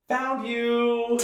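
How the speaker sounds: high, loud sing-song "Found you!"; singsong found you. Acted. Tiny half-orc girl to the hiding player, high sing-song. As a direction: call it out like a playful kid.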